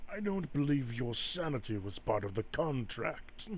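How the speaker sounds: quiet, measured comeback; softly dry and unbothered; taunting spirit. Acted. Entity rebuffs Spirit Leaf's plea about sanity, softly taunting. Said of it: "he's just gonna respond".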